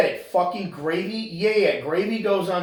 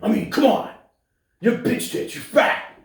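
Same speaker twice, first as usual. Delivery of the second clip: high mock-angry yelling; put-on screaming rant; mock podcast screaming; 6 semitones higher, slower than usual. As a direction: bellow hammed-up insults at the listener. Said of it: "just scream".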